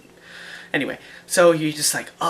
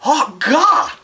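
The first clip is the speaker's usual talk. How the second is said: sudden high realizing ga; light bulb moment on ga; catching the right word; 9 semitones higher, 4 dB louder than usual. Retold or imitated. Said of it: "You're like".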